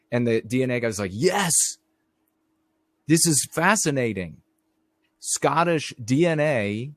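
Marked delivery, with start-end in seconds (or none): 1.1-6.9 voiced geneticist. Voicing delighted geneticist.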